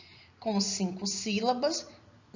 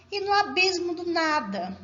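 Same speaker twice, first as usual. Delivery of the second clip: higher-pitched recital of the line; verse read aloud; 7 semitones higher, 4 dB louder than usual. Shown as a demonstration. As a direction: read the verse out clearly to the class. Reads out the poem's last verse.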